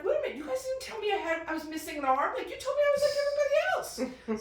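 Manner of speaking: high, fast, outraged protest; indignant outburst. Retold or imitated. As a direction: call your parents out, betrayed. Angry kid confronts parents.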